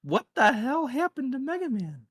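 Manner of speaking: high-pitched, aghast outburst; real disbelief. Real, not acted. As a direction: cry out in baffled disbelief. Reacting aghast to ugly figure.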